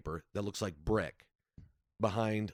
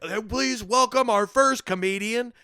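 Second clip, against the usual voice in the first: high, loud, drawn-out emcee intro; big mock announcer welcome; taped show announcer; 12 semitones higher, 9 dB louder than usual. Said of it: "And it's like".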